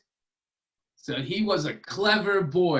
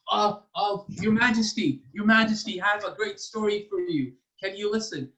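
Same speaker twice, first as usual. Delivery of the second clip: eager pleading; 5 semitones higher than usual. Acted. Eager storyteller begs the king.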